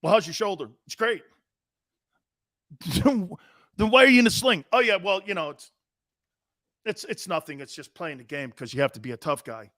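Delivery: lightly voiced back-and-forth, evasive answers; hint of a dodging quarterback; mock dialogue with Baker. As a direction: play both sides of a sheepish interview. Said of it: "Hold on, watch this".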